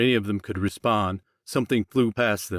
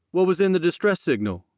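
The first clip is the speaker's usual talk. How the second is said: urgent question; 9 semitones higher than usual. Acted. Jackson demands answers.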